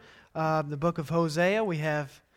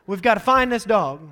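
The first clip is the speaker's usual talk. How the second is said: very high, louder panicked wife voice; mock panic, much higher and louder; 8 dB louder than usual. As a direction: imitate the wife freaking out, slowing on the words. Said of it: "she's freaking out".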